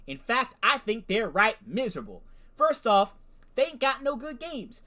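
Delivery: hollering hillbilly rant in a hammed-up Southern accent; redneck accent. Streamer acts out the AI's hillbilly rant in a Southern redneck accent. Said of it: "I'm not really good with my redneck accent".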